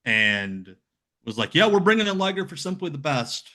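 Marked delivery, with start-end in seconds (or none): 1.6-3.5 high-pitched mimicry of a promoter's brag; mock the boss making a big claim; put-on, pitched-up bragging; imitated jealous boast. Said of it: "He got real jealous".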